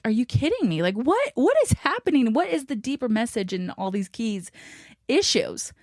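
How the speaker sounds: mock disbelief, pitch lifting on each question; retold exasperation. Wife retelling her reaction to key issues, exasperated.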